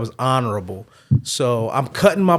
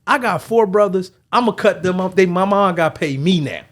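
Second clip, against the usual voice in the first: put-on excited kid; 5 semitones higher, 5 dB louder than usual. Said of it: "He's like".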